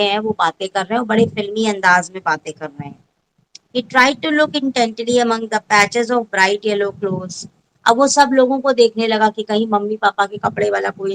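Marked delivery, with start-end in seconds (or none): 3.8-7.5 very slow, every word set apart; teacher reads the story aloud to pupils, very slow; slow textbook reading. Shown as a demonstration. Teacher reads English text.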